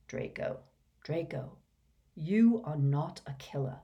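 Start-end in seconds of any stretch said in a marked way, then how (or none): 0.1-0.6 breathy whisper of a name; an old man's hushed whisper. A narrator's reading. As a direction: barely voice it, pleading. Dumbledore gently pleading with Malfoy.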